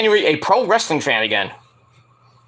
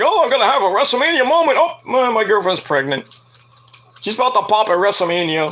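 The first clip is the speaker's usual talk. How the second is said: mock wrestler; 4 semitones higher than usual.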